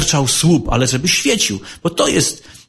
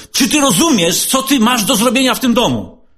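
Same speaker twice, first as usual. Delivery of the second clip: raised, higher scolding voice; half-shouted scolding; 8 semitones higher than usual. Retold or imitated. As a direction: scold the housemate almost shouting. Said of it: "krzycząc prawie na niego". (na wpół krzyczący, podniesiony głos)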